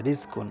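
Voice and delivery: রিজকুন with a light thin র; thin র demo. Shown as a demonstration. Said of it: "পাতলা করে পড়তে হয়".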